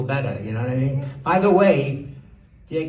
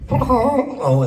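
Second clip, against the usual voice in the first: laughing; 10 semitones higher, 4 dB louder than usual. Real, not acted. Laughs at own impression.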